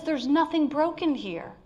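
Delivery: slow, gentle voice of God; a touch of divine tenderness; tender reassurance. Acted. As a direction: comfort the broken, slowly. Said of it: "assessments of God that says".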